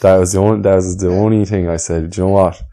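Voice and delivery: talking while chewing gum; words round a piece of gum. Real, not acted. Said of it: "I have chewing gum in my mouth".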